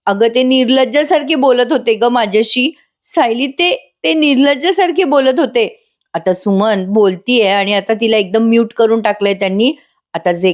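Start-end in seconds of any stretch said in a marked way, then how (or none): 0.1-5.8 mock-distraught, higher-pitched outpouring; imitated tearful telling. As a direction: act out an upset aunt, pitch raised, without real sobs. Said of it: "Suman मग रडत रडत सांगते".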